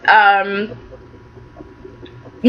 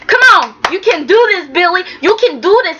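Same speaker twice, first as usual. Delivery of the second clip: urging; 5 semitones higher than usual. Retold or imitated. Victoria urging Billy to remember.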